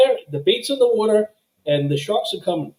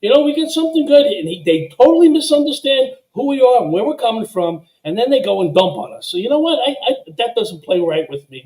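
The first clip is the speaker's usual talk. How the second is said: passionate rant; 4 semitones higher than usual. Real, not acted. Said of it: "I love the passion".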